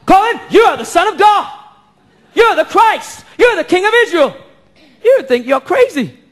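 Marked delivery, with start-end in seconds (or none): 0.0-4.4 shouts up. Pretend. Congregation member shouts up to the pastor, a mild raised call. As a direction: call it out boldly from the pews. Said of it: "shouts up".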